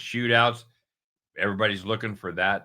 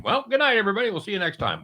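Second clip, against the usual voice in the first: mock sign-off; 13 semitones higher, much faster than usual. Fake sign-off mid-show.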